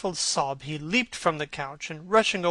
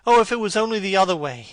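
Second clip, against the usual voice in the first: anguished outburst; 4 semitones higher, 8 dB louder, faster than usual. Acted.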